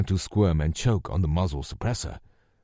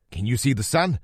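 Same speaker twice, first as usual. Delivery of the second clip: phone scream; 6 semitones higher than usual. A narrator's reading. Lou shouting into the phone over the helicopter. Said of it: "Lou scream into the phone".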